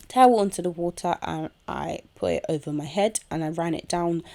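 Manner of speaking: talking while chewing gum. Real, not acted. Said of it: "I'm just chewing my chewing gum".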